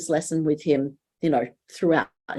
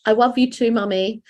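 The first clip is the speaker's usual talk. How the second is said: put-on high toddler voice with w for l in "love"; small daughter; 5 semitones higher than usual. Mum imitating her daughter waking at night, high toddler voice. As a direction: imitate a little girl, "love" said as "wuv". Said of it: "And she'll go".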